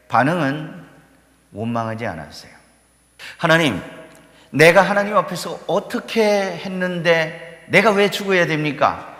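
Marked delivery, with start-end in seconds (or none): 3.4-9.1 higher, mock protesting plea; complaining king. Imagined king protesting his death to God, higher, aggrieved. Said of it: "이렇게 원망하지 않았다는 거예요".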